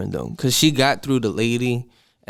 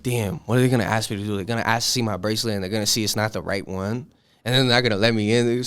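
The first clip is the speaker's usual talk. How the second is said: softer, fast anxious muttering; nervous inner voice; 3 semitones lower, 4 dB quieter, faster than usual. Retold or imitated. Walking up to security alone, hushed fast retold nerves. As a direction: rush your worried thoughts under your breath. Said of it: "I'm freaking out at this point".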